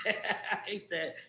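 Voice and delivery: laughing through it, a touch rueful. Retold or imitated. Chairman laughing as he admits he's wrong. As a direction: chuckle as you concede the point. Admitting the other side was right.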